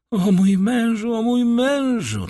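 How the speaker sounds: high, drawn-out wail of a wife; desperate pleading. A narrator's reading. Terrified wife pleads with accusing husband. (wysokie, rozpaczliwe błaganie)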